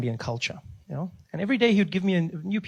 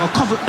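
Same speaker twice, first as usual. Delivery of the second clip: fake threatening cough; 8 semitones higher, faster than usual. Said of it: "I was like".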